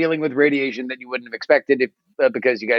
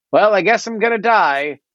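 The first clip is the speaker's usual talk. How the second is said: mock dramatic Kepler; 9 semitones higher than usual. Kepler voiced in retelling.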